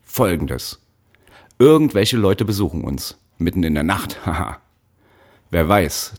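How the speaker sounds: lightly voiced fake cheer over a hidden temper; forced friendliness. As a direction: sweeten it, but don't mean it. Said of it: "zwang er sich zu einem Ton, der freundlich sein sollte".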